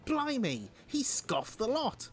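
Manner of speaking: surprised exclamation. Acted. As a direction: gasp it out, amazed. Reading comic character's exclamation.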